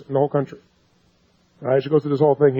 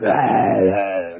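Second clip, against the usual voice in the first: mock groans; 10 semitones lower than usual. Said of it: "she was like".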